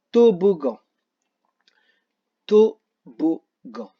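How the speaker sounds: toboggan drawn out slowly, syllable by syllable; slow syllable demo. Shown as a demonstration. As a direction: stretch toboggan for the listening exercise. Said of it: "là où vous entendez le son G". (toboggan lent, syllabe par syllabe)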